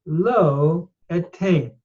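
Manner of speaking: lo etein said slowly, lo stressed; slow Hebrew. Shown as a demonstration. Teacher breaking down the Hebrew verb, slow. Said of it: "followed by".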